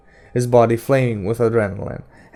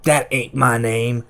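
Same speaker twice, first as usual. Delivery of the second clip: indignant Detta; 3 semitones higher, 5 dB louder than usual. A narrator's reading. Detta objects to being called Odetta, indignantly. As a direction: bristle at the wrong name.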